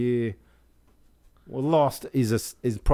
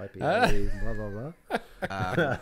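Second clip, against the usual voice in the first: inner voice; much slower than usual. Retold or imitated. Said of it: "My flawed self's like going".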